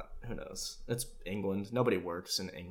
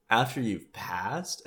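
stunned reaction; much slower than usual. Retold or imitated. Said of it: "that was my reaction".

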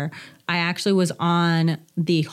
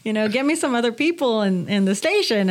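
retold exasperation; 6 semitones higher than usual. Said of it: "I'm like".

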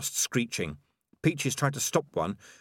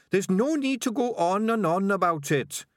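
high-pitched, impatient little rat; Sardines the rat; 10 semitones higher, 4 dB louder than usual. A narrator's reading. Rat placating a nagging companion, high and impatient. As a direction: cut off the argument in a high voice.

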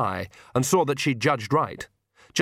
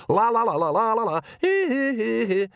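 high, noisy nonsense syllables; shouted babble; 11 semitones higher than usual. A narrator's reading. Nanny drowning out Magrat's thoughts, high shouted babble. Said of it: "shouted Nanny".

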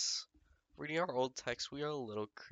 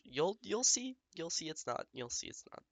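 playful teasing; 9 semitones higher, 4 dB louder than usual. Real, not acted. Teasing about partner's rant.

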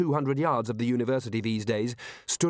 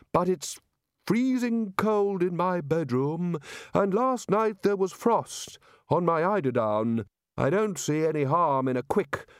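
wistful chair of indefinite studies; 5 semitones higher than usual. Acted. Chair of studies longing for the beach, high wistful plea. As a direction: wheedle for a stroll in the warm.

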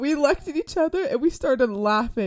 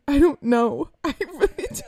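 put-on laughing drunk; 3 semitones higher than usual. Drunk answer to mom.

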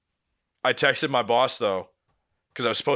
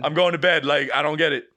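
indignant; 3 semitones higher, 4 dB louder than usual. Retold or imitated. Mock indignant exit line.

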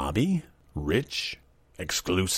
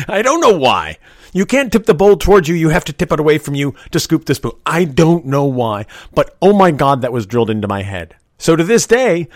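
higher and louder, worked up; exasperated emphasis; 8 semitones higher, 7 dB louder than usual. Real, not acted. Ranting to viewers about the soup bowl rule, louder and higher. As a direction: hammer the absurd rule home.

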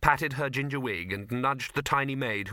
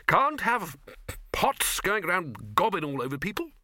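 blustering chancellor; 6 semitones higher than usual. A narrator's reading. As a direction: protest with indignant authority. Arch-Chancellor blusters about the pot.

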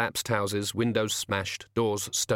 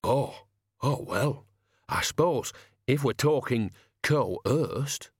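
muttering coachman; 3 semitones higher, much slower than usual. Acted. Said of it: "Ernie muttered".

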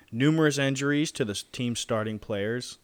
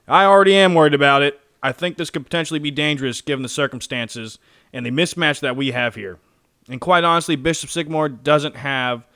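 loud, hyped TV commentator; sports announcer voice; 9 dB louder than usual. Retold or imitated. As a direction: call it like a football broadcaster. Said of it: "I'm gonna do my announcer voice for this".

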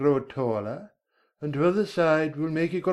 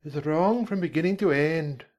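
firm, higher-pitched caterpillar voice; decided; 5 semitones higher than usual. Acted. Caterpillar judging Alice's recitation, decided. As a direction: pronounce it decidedly, in character. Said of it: "said the caterpillar decidedly".

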